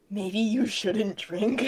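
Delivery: soft, slow and hushed. Acted.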